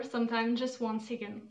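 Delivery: reading English aloud with a French accent; French accent, careful English reading. Shown as a demonstration. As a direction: sound out "Sometimes just one second." like a French learner practising English. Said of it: "J'ai toujours un accent anglais".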